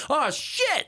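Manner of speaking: high, dismayed swear; mock frustration over fantasy luck; exasperated curse. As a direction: groan out the bad news. Another player injured.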